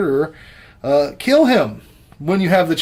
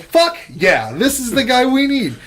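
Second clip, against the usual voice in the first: excited exclamation, higher and louder; mock-thrilled outburst; eager acted reaction; 11 semitones higher, 5 dB louder than usual. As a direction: play up being thrilled to find your saviour. Acting out his own eager reaction.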